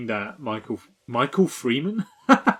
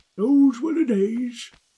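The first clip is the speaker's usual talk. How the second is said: put-on elderly man voice, higher; 11 semitones higher than usual. Performing a line after a viewer asks for it: old man voice. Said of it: "Old man voice".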